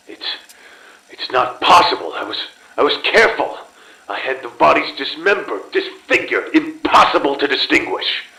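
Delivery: frantic self-justification growing shrill with fear; rising panic. Acted. Investigation closing in on him.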